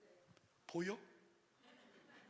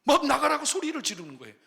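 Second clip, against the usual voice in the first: louder, higher retelling of the yell; loud and high preaching; 9 semitones higher, 15 dB louder, faster than usual. Real, not acted. Preacher stressing how mother yelled, loud and high. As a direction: drive it home, voice raised.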